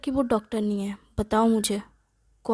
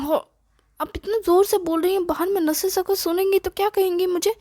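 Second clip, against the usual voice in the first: embarrassed plea; 6 semitones higher than usual. Acted. Son embarrassed by mother.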